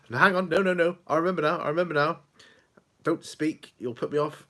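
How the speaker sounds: put-on eager elderly mother fending off help; imitating mum. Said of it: "Then he said".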